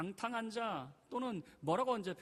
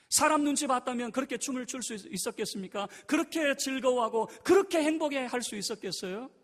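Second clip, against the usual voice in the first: high and loud sermon voice; fiery preaching; 7 semitones higher, 10 dB louder than usual. Acted. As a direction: preach it out to the whole church. Preaching at full force. (열정적으로 외치는 설교)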